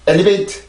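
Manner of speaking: 엘리베이트 said as even Korean syllables e-li-be-i-teu; 엘리베이트 with every syllable equal, no English stress; choppy Konglish 엘리베이트; wrong flat syllables. Shown as a demonstration. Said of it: "엘리베이트 이렇게 하면서 발음해주면 안 돼요".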